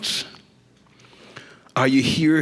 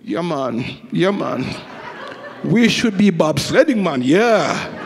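put-on Jamaican accent. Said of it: "I can see a guy go".

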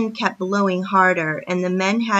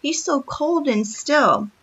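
put-on a child crying out high in fear; frightened cry; 6 semitones higher than usual. A narrator's reading. Girl crying out to the men for her father, high and frightened. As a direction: call for help for her frozen father, high and urgent. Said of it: "Patty cried out".

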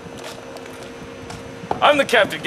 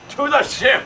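pirate captain's rallying shout; commanding call; 3 semitones higher than usual. Acted. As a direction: send the crew off with a shout. Captain sending crew to the ship.

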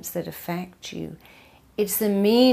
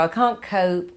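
helpless "can't cope"; 4 dB louder than usual. Shown as a demonstration. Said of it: "or you can choose to go".

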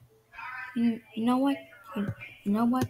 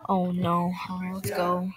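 whisper; 6 semitones lower, 4 dB quieter than usual. Acted. Caught by mom, whispered.

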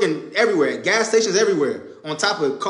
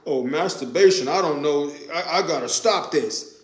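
lower, softer mock whine; 4 semitones lower, 5 dB quieter than usual. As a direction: mimic a fake-repentant excuse. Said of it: "Why all of a sudden now".

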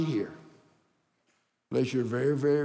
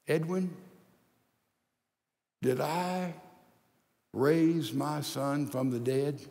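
gentle Lord. Pretend. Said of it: "very, very gently and say".

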